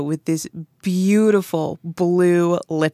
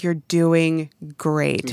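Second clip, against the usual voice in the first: reassuring; much slower than usual. Retold or imitated. Reassuring nervous guests.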